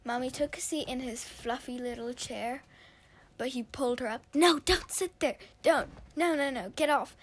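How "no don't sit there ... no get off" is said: annoyed protest. Acted. Alex shoos Mommy off chair.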